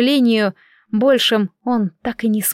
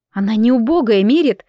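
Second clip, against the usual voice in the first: a touch louder, hard and firm; firm and harsh; 3 dB louder than usual. Acted. Lori defending her homeland to Mirit, firmly. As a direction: shut him down flatly, mildly acted. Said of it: "жёстко ответила я".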